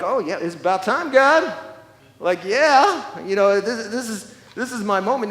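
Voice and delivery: loud, rising eager mock cheer; eager David. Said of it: "David was like".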